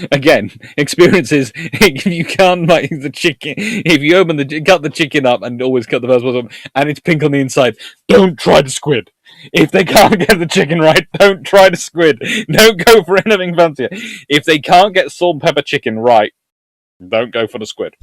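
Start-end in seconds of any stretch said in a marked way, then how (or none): 0.1-11.1 high, loud, laughing warning; emphatic laughing rant; laughing insistence. Real, not acted. Insistent advice on dodgy takeaways. 11.1-12.2 high, loud and slow, laughing; laughing, insistent don't try the squid; emphatic warning. Real, not acted. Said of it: "repeated plainly next". 12.5-16.3 high, loud, laughing warning; emphatic laughing rant; laughing insistence. Real, not acted. Insistent advice on dodgy takeaways.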